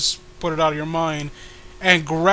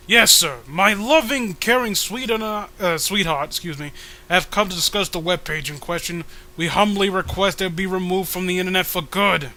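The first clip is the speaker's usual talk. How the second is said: mock humble petitioner. Petitioner pleading with the troll, mock humble. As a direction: beg the villain with exaggerated politeness.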